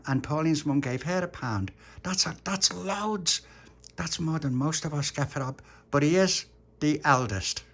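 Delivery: put-on earnest kid explaining a plan; lightly voiced child planner. Little Pappy explains the birthday plan.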